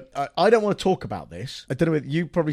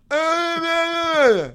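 a lightly imitated high whale groan; drawn-out high whale moan; whale noises; 13 semitones higher, 4 dB louder, much slower than usual. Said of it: "to just go".

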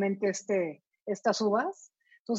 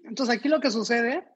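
mouth full. Real, not acted. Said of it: "Vamos a hablar con la boca llena".

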